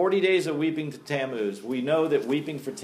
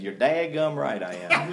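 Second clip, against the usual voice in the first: light North Georgia twang; North Georgia accent. Acted. Preacher admitting he is a killjoy, North Georgia accent. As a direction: answer back in a playful North Georgia accent. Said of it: "in my best North Georgia accent".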